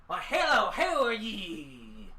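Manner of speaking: farmer with shotgun. Acted. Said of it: "sticks the steaming, uh, barrel under Samson's nose, like".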